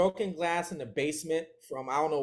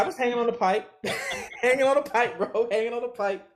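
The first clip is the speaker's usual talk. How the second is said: amused emphasis; 8 semitones higher, 5 dB louder than usual. Real, not acted. Laughing retelling of hiding.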